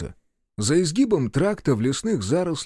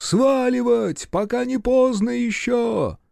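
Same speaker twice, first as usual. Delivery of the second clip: panicky cry; 10 semitones higher, slower than usual. Acted. Panicking soldier urges flight.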